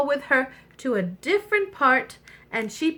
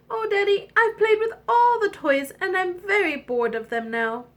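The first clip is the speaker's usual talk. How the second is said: lightly whining princess, starting high and sinking; a hint of a spoilt little princess; bored princess; 5 semitones higher than usual. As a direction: complain to daddy, mildly bored.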